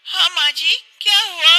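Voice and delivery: put-on high-pitched young wife, breathless and relieved; young wife explaining. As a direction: tell her mother-in-law how you escaped. (ऊँची आवाज़ में बहू, राहत भरी)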